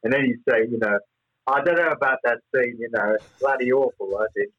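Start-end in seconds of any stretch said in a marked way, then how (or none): 1.5-4.5 lightly imitated German accent; a touch of mock German accent. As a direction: retell it with a hint of a German accent. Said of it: "He had a German accent".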